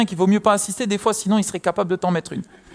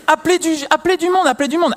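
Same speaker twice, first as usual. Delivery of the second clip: mimicked panic; 8 semitones higher than usual. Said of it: "Elle était en panique".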